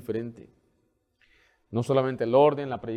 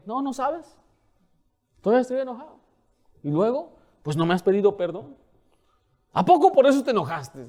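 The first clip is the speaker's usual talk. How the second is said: high-pitched mock sulky voice; petulant grudge-holder; 8 semitones higher than usual. Preacher mocks a believer still sulking over no apology. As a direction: whine like a hurt church member who won't let it go.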